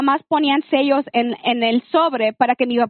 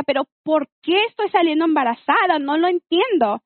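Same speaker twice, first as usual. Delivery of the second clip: retold exasperated protest; indignant question from a retold memory; retold anger; 3 semitones higher than usual. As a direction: replay your angry disbelief, without shouting. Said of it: "yo estaba enojada".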